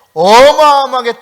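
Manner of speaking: 어마어마하게 stretched out loud and high; emphatic stress on 어마어마하게. Real, not acted. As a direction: draw out the first syllable of 어마어마하게 forcefully. Describes a thundering waterfall.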